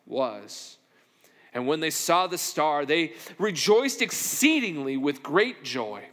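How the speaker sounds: measured reading of the Bible passage; scripture reading. Acted. Pastor reading scripture to the congregation, measured and solemn. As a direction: read the Gospel text aloud with weight.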